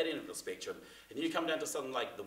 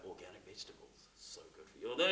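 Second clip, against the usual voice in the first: warm factual read; 2 semitones lower than usual. Shown as a demonstration. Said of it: "for my demo that I did".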